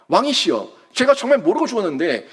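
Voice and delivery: a hint of a son begging the king for his life, rising high toward the end; plead, building from calm to a high, desperate appeal; mock desperate pleading. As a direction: pretend Jonathan pleading with King Saul, voice climbing in desperation. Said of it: "막 발악하지 않겠어요".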